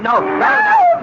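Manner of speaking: frantic hush. Acted. Man silencing woman.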